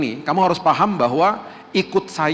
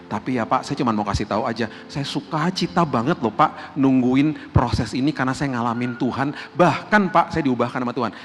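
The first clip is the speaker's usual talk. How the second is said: joyful, sincere believer; 3 semitones lower than usual. Retold or imitated. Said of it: "Beda sama orang yang ngomong begini".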